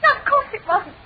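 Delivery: tearful, anxious pleading; frantic about her boyfriend, almost crying; distressed, near tears. Acted. Girl distressed about missing boyfriend.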